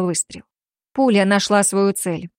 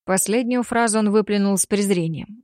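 ordinary talk

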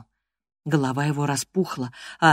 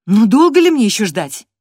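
much louder, higher impatient call; impatient demand; 6 semitones higher, 9 dB louder than usual. Acted. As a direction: demand it, fed up with waiting. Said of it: "продолжала я".

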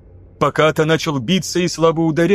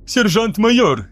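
lieutenant panics, raised and drawn out; panicked cry; 7 semitones higher, slower than usual. A narrator's reading. Lieutenant backing away from the furious sergeant, panicked. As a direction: cry his rank as you back away. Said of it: "в панике отступая".

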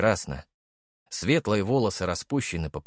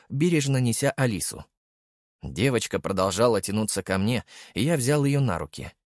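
ordinary delivery, nothing marked

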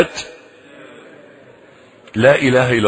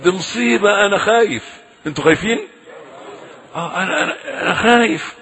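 mock fear; 5 semitones higher than usual. Mocking frightened people.

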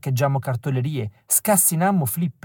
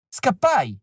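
a raised, urgent call to run; shouted warning; 6 semitones higher than usual. Retold or imitated. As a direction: call out the alarm, pitched up.

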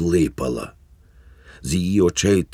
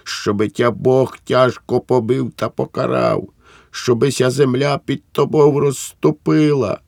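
much higher, loud, hysterical cursing; wife cursing her husband in hysterical rage; raging curse; 8 semitones higher, 4 dB louder than usual. Acted. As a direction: scream curses, voice climbing.

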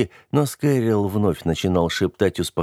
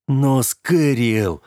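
slow pleading cry; 5 semitones higher, much slower than usual. Acted. Джером протестует, в отчаянии.

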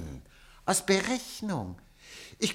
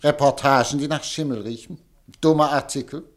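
scornful tirade, louder on each jab; angry rant; 5 dB louder than usual. Acted. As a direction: spit out every item as rubbish. Editor berates his own newspaper. (wütende Schimpftirade)

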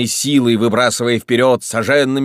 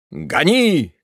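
sharp raised call to the driver; urging the coachman on, a raised shout; 6 semitones higher than usual. A narrator's reading. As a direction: snap the order out high. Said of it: "крикнул Кашперов".

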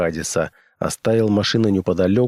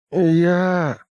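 painfully slow; 9 semitones higher than usual. Acted. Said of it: "Слова выходили с болезненной медлительностью".

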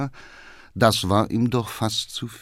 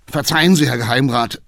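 apologetic call; 2 semitones higher, 4 dB louder, faster than usual. Acted. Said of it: "rief er aus".

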